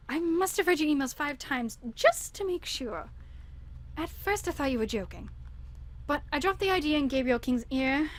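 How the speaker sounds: lightly put-on Spanish accent for Sophia; a hint of a Spanish accent. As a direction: read the letter as Sophia with a mild Madrid accent. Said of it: "This will be Sophia's".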